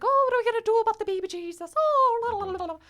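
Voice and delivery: high, fast panicky fluttering; mock-frantic priest wailing la la la; frantic Father Francis. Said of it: "And he's like".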